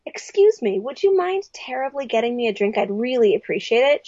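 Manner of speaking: lightly acted polite plea; overly polite request. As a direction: ask with exaggerated politeness. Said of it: "he's deliberately rude to break down".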